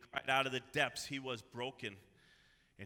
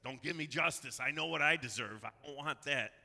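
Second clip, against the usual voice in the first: raised, louder, pleading as a penitent; urgent acted plea; 3 semitones higher, 6 dB louder than usual. Guilty David begs God not to give him justice, urgent acted plea. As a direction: plead it emphatically, as if refusing a sentence.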